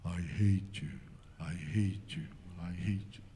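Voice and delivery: low, fading echo imitation; imitated hillside echo, dropping away; echo coming back. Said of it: "조금 있다가 들려오는데".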